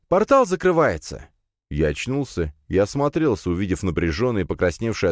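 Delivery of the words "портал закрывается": high-pitched alarm call; urgent cry. A narrator's reading. Princess warning that the portal closes, urgent cry. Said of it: "крик принцессы".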